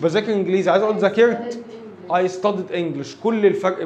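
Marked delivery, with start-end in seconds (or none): 2.1-3.2 I studied English very slowly; teacher dictating slowly; slow dictation. Shown as a demonstration. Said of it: "model sentence".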